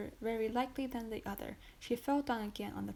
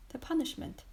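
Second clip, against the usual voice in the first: higher, startled cry; horrified exclamation; 5 semitones higher, 3 dB louder than usual. Acted. Wife hearing her sentence, shocked and higher. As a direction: recoil at the word punishment. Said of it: "exclaimed Madame de Villefort".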